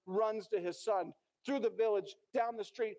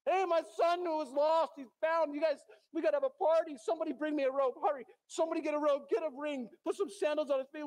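joyful shouting; 3 semitones higher, faster than usual. Retold or imitated. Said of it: "he's shouting to everybody".

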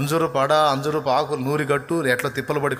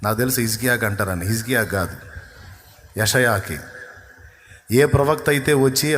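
normal talking voice

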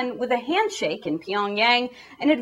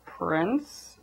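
a worried lawmaker choosing words carefully; tentative mock politician; timid lawmakers. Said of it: "lawmakers are like".

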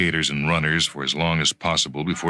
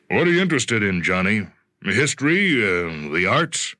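put-on a touch higher, curious older boss; lightly voiced executive; 4 semitones higher than usual. Bartholomew quizzing Jonathan at lunch, lightly voiced. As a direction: probe him gently, like a patron.

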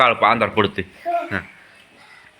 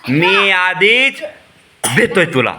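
higher, drawn-out dramatic line delivery; mock movie threat; 7 semitones higher, 4 dB louder, much slower than usual. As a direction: play a slow, hammed-up film threat. Father models child's threatening film dialogue.

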